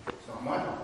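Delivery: whispered very softly. Shown as a demonstration. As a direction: breathe the excuse out as a whisper. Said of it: "repeated as a whisper".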